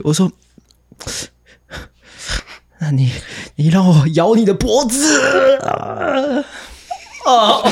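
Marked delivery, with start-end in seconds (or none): 2.8-7.7 slow, menacing vampire voice. Retold or imitated. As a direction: lean in like a hungry vampire. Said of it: "那是吸血鬼的声音".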